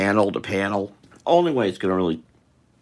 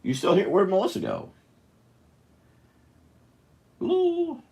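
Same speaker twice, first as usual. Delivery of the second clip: calling out. Real, not acted. Calling for missing Melissa.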